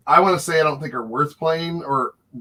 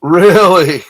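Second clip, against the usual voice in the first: surprised; 9 dB louder than usual. Real, not acted. Surprised by the vote count.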